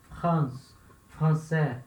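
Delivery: 'France, français' with throat R after each F; guttural R in both 'France' and 'français'; careful French R. Shown as a demonstration. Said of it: "prestar muita atenção na hora de falar".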